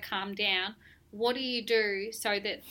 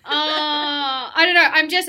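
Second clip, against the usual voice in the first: laughing; 6 semitones higher, 13 dB louder, much slower than usual. Real, not acted. Mock despair, laughing.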